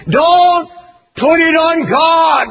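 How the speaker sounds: high, loud, slow rebuke; shouted rebuke. Real, not acted. Preacher shouting at TV preachers, furious rebuke. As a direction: roar it down at them.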